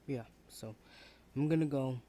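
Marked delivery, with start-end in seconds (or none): 1.4-2.0 defiant outburst. Acted. Student announcing departure.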